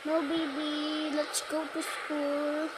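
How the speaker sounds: soft, slow motherly insistence; pretend coaxing mother. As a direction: gently coax a reluctant child, drawing words out. Mother voiced coaxing the child.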